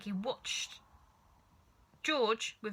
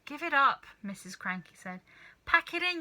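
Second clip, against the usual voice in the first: high, louder scoffing; scornful wife; 5 semitones higher, 3 dB louder than usual. A narrator's reading. Missus Cranky mocking the failed medicine, high scornful voice. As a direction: dismiss them scornfully.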